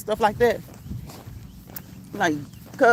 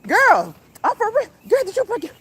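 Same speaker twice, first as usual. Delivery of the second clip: laughing hard; 10 semitones higher, 4 dB louder than usual. Real, not acted. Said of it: "I'm hollering".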